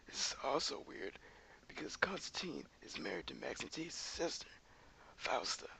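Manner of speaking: put-on old man voice. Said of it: "I'm gonna use this old man voice".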